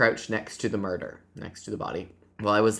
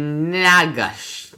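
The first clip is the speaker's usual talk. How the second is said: "Yezinagosh" drawn out slowly, higher and louder; sounded out; 6 semitones higher, 7 dB louder, slower than usual. Shown as a demonstration. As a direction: stretch every syllable of "Yezinagosh". Sounding out a foreign place name.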